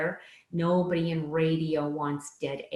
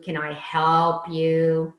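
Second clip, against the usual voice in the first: slow, louder sarcastic drawl on help; 6 dB louder, slower than usual. Shown as a demonstration. To a customer, a slow sarcastic offer of help. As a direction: lean on help with mock sweetness. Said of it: "it's the sarcasm".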